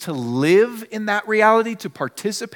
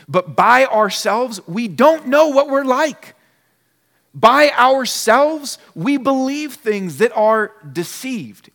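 preaching louder; 5 semitones higher, 5 dB louder, slower than usual. Acted. Preacher building to key point.

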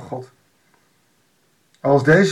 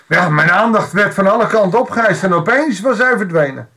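higher, louder pleading prophet; prophet calling out; 4 semitones higher, 3 dB louder than usual. Acted. Disguised prophet hailing the king from the roadside, high and loud. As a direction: call out to the passing king, raised high.

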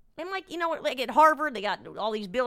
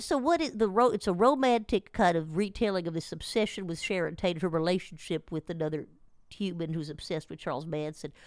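nasal voice; 2 semitones lower than usual. Retold or imitated. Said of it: "I'm just gonna channel him for a bit".

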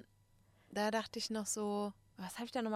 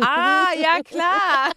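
much higher, loud burst of recognition; loud mock realisation; 7 semitones higher, 15 dB louder, much slower than usual. Arabic speaker finally gets the word, loud delighted recognition. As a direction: shout it as the penny drops. Retold sudden understanding, shouted.

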